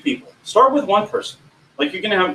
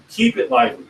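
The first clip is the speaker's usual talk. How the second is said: pitched up, lively delivery; 7 semitones higher than usual. Shown as a demonstration. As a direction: lift the voice to show liveliness. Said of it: "Keep your voice. Bring it up".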